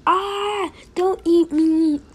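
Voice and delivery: loud, drawn-out mock plea; pretend terror. Victim begging not to be eaten, pretend terror. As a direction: cry out as playful prey. Prey pleads in play.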